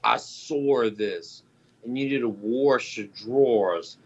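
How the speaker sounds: slow imitation of Boston speech with added Rs; mock Boston accent. Mocking Bostonians who add the R, slow mock Boston accent. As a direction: imitate a Bostonian, R in "saw" and "wash". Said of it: "Why do they always add the R".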